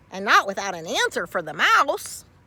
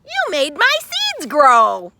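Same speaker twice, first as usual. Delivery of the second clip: louder, higher happy thanks; grateful mouse; 6 semitones higher, 9 dB louder than usual. Acted. Field mouse thanking Carl, loud and bright. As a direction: beam with gratitude.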